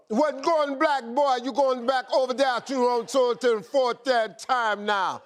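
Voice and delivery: a light, mock Jamaican patois; playful mock Jamaican patois impression. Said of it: "So give, like, patois".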